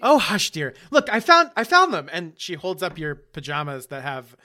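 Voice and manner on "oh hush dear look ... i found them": doting mother voice. Acted. Mother voiced, fussing over son.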